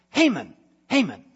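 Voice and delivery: pleased king asking advice; eager king. Acted. King asking Haman how to honor, lightly voiced.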